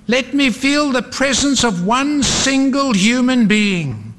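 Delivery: high, pleading cry; restrained yell, no real shout; mild yell. A narrator's reading. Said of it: "he yelled".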